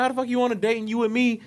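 fast, high mock outrage; angry. Boyfriend challenging his girl about the date, angry. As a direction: retell it as a jealous, rapid demand. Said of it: "his anger was not at me".

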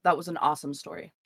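unintentionally sarcastic praise; sincere compliment that comes off very sarcastic. Real, not acted. Host reacting to guest's streaming origin story, sarcastic. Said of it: "it just came off very sarcastic".

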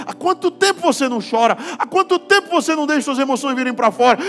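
fiery preaching. Acted. Pastor preaches to the congregation about men crying, full force. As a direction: preach it out to the whole church.

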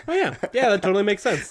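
high, eager yes-yes; bright mock agreement; mock nodding agreement. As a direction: play the nodding listener. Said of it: "I was like".

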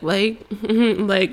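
mock imitation of someone saying "like". Ex mimics the speaker's verbal habit, mocking. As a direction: mimic a filler word teasingly. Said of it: "mocking me".

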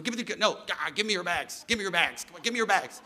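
lightly voiced insistent bellhop; a hint of a pushy bellhop; eager bellhop Jesus. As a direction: coax them to hand over the bags. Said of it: "the Lord is, he's almost like our bellhop".

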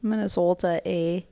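put-on light Minnesotan accent with a tag "eh"; Minnesotan-Canadian accent. Guest showing the local saying, light Minnesotan-Canadian accent. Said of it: "saying was that Minnesotans and Canadians say".

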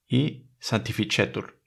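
sanctificetur said slowly with ch before E; Latin C as ch. Shown as a demonstration. Showing C before E slowly. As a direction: draw out sanctificetur, ch on the ce. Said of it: "se pronuncia como la che".

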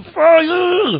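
a high, loud, urgent cry of fire; fire shout. Retold or imitated. Watchman on the tower warns the town, shouting. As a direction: yell fire like a watchman who sees the flames. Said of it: "און ער געשריגן".

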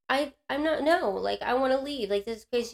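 re-enacting a pleading argument; upset protest. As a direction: stumble into an exasperated objection. Retold refusal to stay.

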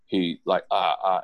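imitating a flustered stammer; mock stuttering, lost for words; mild imitated stutter. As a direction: stall on little broken syllables. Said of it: "And he stuttered".

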